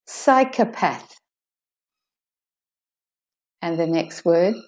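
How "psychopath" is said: slow "Psychopath", high SY and weak kuh; de-stressed O. Shown as a demonstration. Teacher repeating for learners, slow "Psychopath" with weak O. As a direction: say "Psychopath" slowly with a schwa O. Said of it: "is de-stressed".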